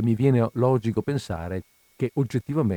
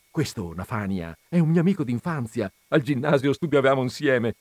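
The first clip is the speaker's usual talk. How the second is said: lightly voiced excited old friend; magro entusiasta; 4 semitones higher, 3 dB louder than usual. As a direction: gush through greetings and family introductions. Il magro saluta e presenta la famiglia. (amico appena ritrovato, con entusiasmo un po' recitato)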